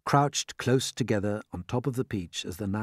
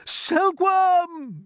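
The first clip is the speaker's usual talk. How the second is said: high, loud call; yelling; 7 dB louder than usual. Acted. James yelling for the silkworm. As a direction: yell the name urgently. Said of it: "yelled James".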